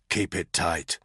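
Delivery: warning. A narrator's reading. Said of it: "Danny warned her".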